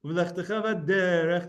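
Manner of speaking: chanted "v'derech" with a firm d; "v'derech" with a crisp dagesh dalet; hard dalet. Shown as a demonstration. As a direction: punch the d in "v'derech", then hold the vowel. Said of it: "I tried to give it a d".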